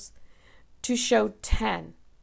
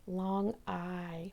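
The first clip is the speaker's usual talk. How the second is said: whispered answer; 3 semitones lower, 7 dB quieter than usual. Shown as a demonstration. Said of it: "answers quietly".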